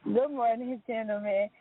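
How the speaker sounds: talking through headphone mic; thin headset mic sound; headphones used as mic. Real, not acted. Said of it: "'Cause I'm talking through my headphones".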